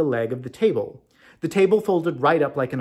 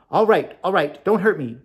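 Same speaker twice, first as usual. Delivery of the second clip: frightened plea; 4 semitones higher, 5 dB louder than usual. A narrator's reading. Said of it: "exclaimed the little man".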